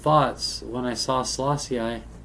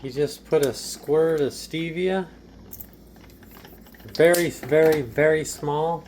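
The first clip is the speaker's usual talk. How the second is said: higher, slow, showy voice of a host serving tea; higher-pitched, unhurried tea-party host; put-on tea host voice; 3 semitones higher, slower than usual. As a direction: play a fussy host presenting English tea, slowly and higher. Tea-making demo in put-on voice.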